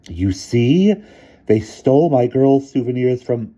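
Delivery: put-on high loud old woman; gloating headmistress. A narrator's reading. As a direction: point to it proudly.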